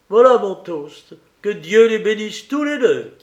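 high-pitched, exuberant toast-giver; hearty, amiable Joe. A narrator's reading. Joe toasts the couple, high and exuberant. Voices Joe making his speech.

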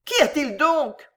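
high, alarmed exclamation; ladies' high-pitched alarm; alarmed cry. A narrator's reading. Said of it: "s'écrièrent les dames, horriblement alarmées".

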